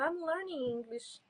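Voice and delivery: soft, slow and clear; slow model phrase. Shown as a demonstration. Teacher demonstrating the phrase for students, slow and soft. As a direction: say it gently for learners. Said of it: "Eu tô aprendendo".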